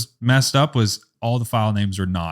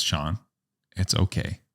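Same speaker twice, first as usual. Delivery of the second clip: gently reassure, pitched down; calm reassurance; 5 semitones lower than usual. Retold or imitated. Colleague reassuring a crying photographer, calm. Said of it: "are you so calm".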